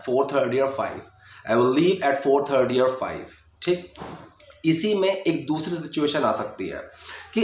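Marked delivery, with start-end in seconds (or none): 0.0-3.2 or reduced to a weak er linked to thirty; slow, let or melt into thirty; unstressed or. Shown as a demonstration. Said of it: "ईआर की आवाज़ दे रहा है". (कमज़ोर अर वाला or)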